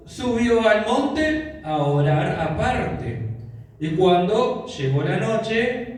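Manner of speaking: measured, solemn Bible reading; scripture reading. Acted. Pastor reading Matthew aloud to the church, solemn reading. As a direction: read the passage to the congregation with weight.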